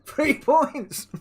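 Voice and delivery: high, loud, laughing through it; cracking up in disbelief. Real, not acted. Repeats the score, laughing.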